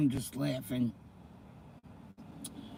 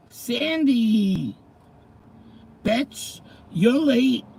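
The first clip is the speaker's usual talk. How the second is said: high, loud playful yell at a friend; joking call-out, loud; mock scolding shout; 7 semitones higher, 6 dB louder, much slower than usual. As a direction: tease her for being late. Teasing viewer late to stream.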